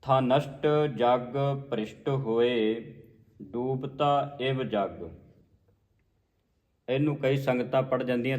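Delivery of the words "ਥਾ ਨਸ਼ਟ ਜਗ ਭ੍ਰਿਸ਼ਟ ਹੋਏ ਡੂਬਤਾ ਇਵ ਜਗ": slow, each word set apart; measured scripture recitation. Shown as a demonstration. Teacher modelling the next line, slow measured recitation. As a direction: recite with drawn-out words.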